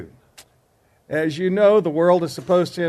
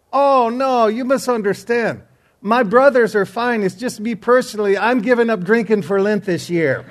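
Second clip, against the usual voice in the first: higher, louder, brightly reassuring; cheerful correction; 6 semitones higher, 6 dB louder than usual. Retold or imitated. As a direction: cheerfully set him straight. Irishman corrects the bartender, cheerful.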